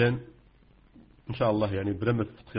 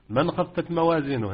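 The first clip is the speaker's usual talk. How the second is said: recited example; 5 semitones higher than usual. Shown as a demonstration. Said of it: "غنخزى الحروف".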